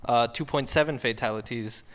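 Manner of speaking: slipping mock German accent. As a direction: attempt a German accent that wobbles. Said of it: "My accent went to crap".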